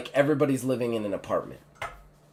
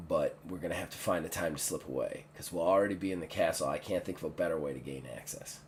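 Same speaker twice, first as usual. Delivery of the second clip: soft, low secret planning; hushed; 4 semitones lower, 5 dB quieter than usual. Acted. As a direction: keep it down, scheming quietly. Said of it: "I would keep it in whispers".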